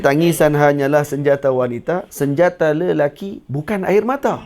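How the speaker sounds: slow, deliberate recital of the verse; recited verse. Shown as a demonstration. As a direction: read the lines out as if writing them down. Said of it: "saya nak tulis". (deklamasi perlahan)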